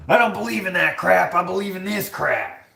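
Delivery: high, exaggerated indignation; hammed-up outraged declaration; mock indignant rant. Mocks the comment just read.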